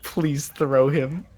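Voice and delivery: slow plea. Acted. Player begging for the throw.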